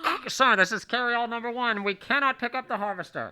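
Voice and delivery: quick, urgent pilot report; pilot radio voice. Acted. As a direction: rattle it off like a flustered pilot.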